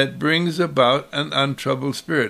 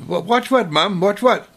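put-on higher, eager child's question; curious child; 6 semitones higher than usual. Child asking his mother what to watch, high and curious. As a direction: ask like a puzzled little kid.

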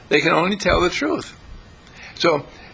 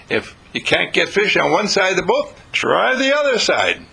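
confident; 3 semitones higher than usual. Retold or imitated. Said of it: "because Jesus doesn't talk like that".

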